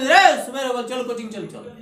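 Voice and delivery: put-on parent waking child.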